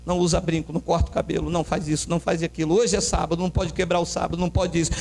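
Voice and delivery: low recital of prohibitions; droning rule list. Retold or imitated. Legalists listing church bans to members, mock droning.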